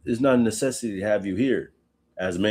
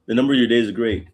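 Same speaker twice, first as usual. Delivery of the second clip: sarcastic; 3 semitones higher, 4 dB louder, faster than usual. Retold or imitated. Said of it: "he's being sarcastic".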